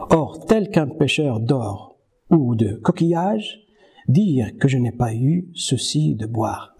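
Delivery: hushed start easing into recital; poem reading. Acted. Teacher reading Rimbaud to students, hushed recital.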